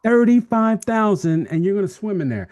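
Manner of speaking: high, loud disbelief, stretching out the number; incredulous. Real, not acted. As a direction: exclaim it in astonishment. Astonished at the crocodile count.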